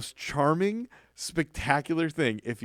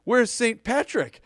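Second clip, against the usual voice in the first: teasing Santa; 10 semitones higher, 3 dB louder, slower than usual. Retold or imitated. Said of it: "And he goes".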